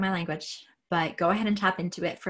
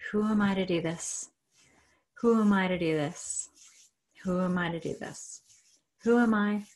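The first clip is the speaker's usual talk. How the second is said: repeated mantra. Shown as a demonstration. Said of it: "Say it over and over again".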